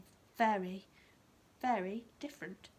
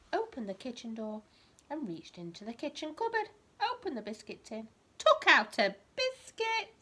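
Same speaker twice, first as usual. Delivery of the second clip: lively bedtime story reading, rising on the key words; reading to a child; 3 dB louder than usual. A narrator's reading. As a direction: read it like a picture book to a toddler.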